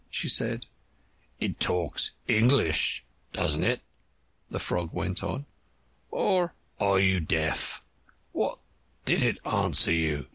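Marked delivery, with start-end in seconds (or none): 1.4-10.3 put-on a dull old frog, puzzled. Frog questioning Alice.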